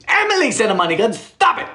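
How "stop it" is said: high laughing protest. Real, not acted. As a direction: laugh it out, delighted. Laughs at money gun.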